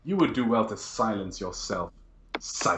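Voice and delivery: lightly acted lofty rebuke; measured, formal scorn with pauses; stern Inquisitor. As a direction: put the psyker in his place. Game master voices stern Inquisitor.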